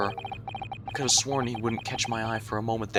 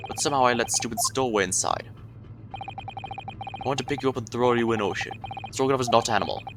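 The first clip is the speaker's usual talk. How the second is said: sailor character voice. Acted.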